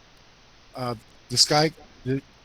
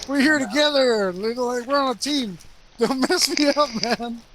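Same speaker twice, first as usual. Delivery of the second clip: pleading complaint; 5 semitones higher than usual. Retold or imitated. Acted scolding of friend over laughing.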